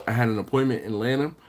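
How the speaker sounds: words stretched by a yawn. Real, not acted. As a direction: talk mid-yawn. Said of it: "Sorry, I'm yawning".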